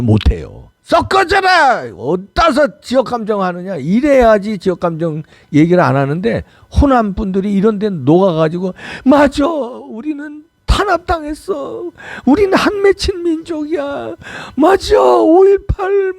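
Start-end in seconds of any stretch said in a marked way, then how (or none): 0.8-3.8 높고 느리게 길게 끄는 호통; 썩 물러가라는 듯 꾸짖어; 호통치듯 꾸짖기. Pretend. 호남이 지역감정 발언자에게 호통. 9.0-16.1 높고 느리게 한탄하는 흉내, 끝은 외침; 피해의식을 비꼬듯 과장해 흉내; 조롱조 흉내. Retold or imitated. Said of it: "이러고".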